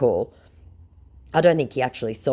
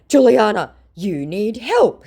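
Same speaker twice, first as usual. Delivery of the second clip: high, loud, slow mock scammer; 10 semitones higher, 6 dB louder, slower than usual. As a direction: plead it as the scammer. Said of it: "he said".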